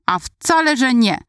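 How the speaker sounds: put-on high, triumphant child's retort; gleeful protest. A narrator's reading. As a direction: crow it in a high, delighted voice. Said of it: "wyskoczyła uradowana". (radosny, wysoki sprzeciw)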